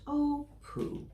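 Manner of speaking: lightly voiced teasing mouse; cheeky little mouse. Mouse teasing the scared elephant, lightly cheeky. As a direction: tease the big elephant gently.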